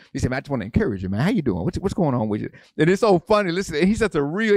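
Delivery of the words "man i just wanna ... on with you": imitating a gangster-talking pastor, lower; lightly mimicked low, street-tough greeting; Wade Bryant. Pastor friend offering encouragement, gangster-style talk. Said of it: "he talk like a gangster".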